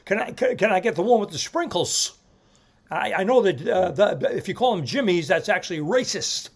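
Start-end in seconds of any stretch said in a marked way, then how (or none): 0.0-2.2 a light, stammering Jimmy Stewart. Retold or imitated. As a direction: stutter it out, aw-shucks. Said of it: "Jimmy Stewart material".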